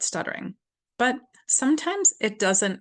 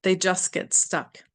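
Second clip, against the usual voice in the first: tapping affirmation; slower than usual. Shown as a demonstration. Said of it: "On the collarbone".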